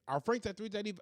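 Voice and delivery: a quick mock Asian accent on the price. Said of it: "why would I just start speaking like that".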